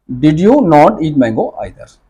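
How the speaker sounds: बहुत धीमा प्रश्न; slow model question. Shown as a demonstration. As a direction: spell out the question slowly. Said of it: "मेरे पास एक choice है either". (बहुत धीमा सवाल)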